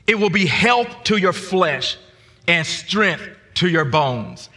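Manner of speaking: slow, measured scripture reading. Acted. Preacher reading Proverbs to the congregation, slow and measured. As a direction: read the verses out with weight.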